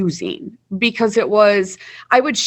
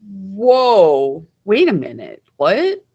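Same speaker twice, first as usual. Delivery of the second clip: mock startled whoa, pitch jumping up on what; retold shock; much slower than usual. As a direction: act stunned, voice climbing into the what. Shocked at mom answering diary.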